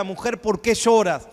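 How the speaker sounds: slow, measured question from Jesus; Jesus asking gently. Retold or imitated. Jesus asks weeping Mary, slow and gentle. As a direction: ask it slowly, like Jesus tenderly questioning. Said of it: "le dijo a María".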